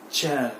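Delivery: चेयर with silent R, "cheh"; correct pronunciation. Shown as a demonstration. Teacher giving learners the right चेयर, R left silent. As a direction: drop the R of चेयर, falling. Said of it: "इसका right pronunciation है".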